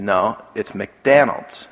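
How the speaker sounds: drawn-out "McDonald's" with DON like "Dan"; stubborn child's "McDanald's" for "McDonald's"; child's mispronunciation. Retold or imitated. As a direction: insist slowly on "McDonald's" said as "McDanald's". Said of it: "And he said".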